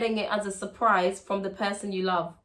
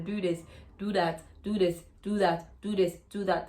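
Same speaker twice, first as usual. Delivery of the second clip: nagging mum; 5 semitones lower, 4 dB quieter than usual. Retold or imitated. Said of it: "mum constantly telling them".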